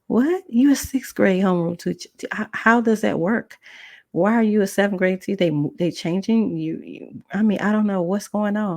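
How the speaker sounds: high, incredulous retold shock; disbelief. Shocked at teacher's news.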